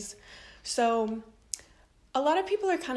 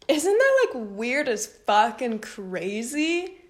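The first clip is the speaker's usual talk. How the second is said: amazed; 2 semitones higher, 6 dB louder, slower than usual. Real, not acted. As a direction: sell how crazy it was. Asking viewers, amazed.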